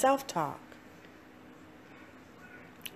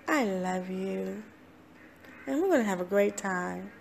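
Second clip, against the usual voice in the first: softer, gentle affirmations to yourself; tender self-talk; 5 dB quieter than usual. Retold or imitated. Speaker reassuring herself in her self-talk, soft and tender. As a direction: speak to yourself like someone you love. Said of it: "And I go".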